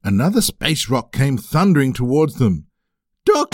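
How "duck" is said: shouted warning. Acted. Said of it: "shouted Mister Hippo".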